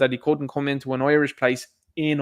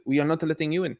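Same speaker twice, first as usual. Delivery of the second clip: put-on botched Spanish doorman accent; badly faked Spanish accent drifting French; attempted Spanish accent, French-sounding. Spanish doorman refusing entry, badly faked foreign accent. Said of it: "that's probably a French accent".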